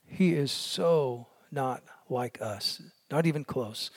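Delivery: drawn-out slow "so not like us"; slow right down to make the point; slow emphasis. Real, not acted. Emphatic slowed contrast.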